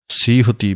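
ਸੀਹੁਤੀ with long ee, see-hu-ti; correct pronunciation. Shown as a demonstration. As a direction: say ਸੀਹੁਤੀ as one word with long first vowel. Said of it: "ਬੋਲਣਾ ਹੈ". (ਸੀਹੁਤੀ ਸਹੀ ਉਚਾਰਨ)

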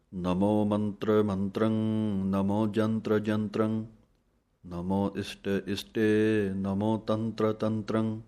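slow, measured chant of verses; scripture recitation. Acted. Teacher recites Jaap Sahib for students, slow chant. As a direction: recite each line with reverence.

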